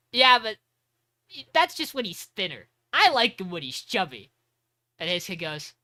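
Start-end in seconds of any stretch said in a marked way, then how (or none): 0.1-4.3 gushing Lou. Retold or imitated. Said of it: "And then Lou goes".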